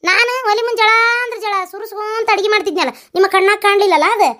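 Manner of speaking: complaining with a catch of crying; tearful complaint. Acted. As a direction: voice cracking into a sob. Complaining woman breaks into tears. (ಅಳುತ್ತಾ ದೂರುವುದು)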